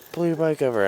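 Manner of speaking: high, pushy cop order. Retold or imitated. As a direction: bark it like a cop. Cop ordering him to stop.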